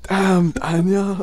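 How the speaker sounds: high-pitched, drawn-out catchphrase; exaggerated slow mock admiration; meme imitation. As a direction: echo the meme, stretching it out high. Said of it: "how that meme went".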